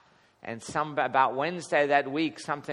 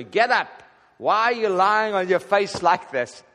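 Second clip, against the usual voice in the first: stern command; 5 semitones higher, 6 dB louder than usual. Retold or imitated. The Lord rebukes Joshua.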